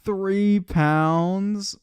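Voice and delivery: loud, high disbelief; incredulous. Real, not acted. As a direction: scoff at the number. Mocking a woman's workout clip.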